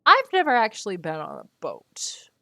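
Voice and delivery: whispered confession; a sheepish whisper to the audience. Real, not acted. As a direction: whisper it like admitting a secret. Confessing aside to chat.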